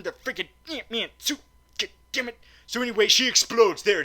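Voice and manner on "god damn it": normal talking voice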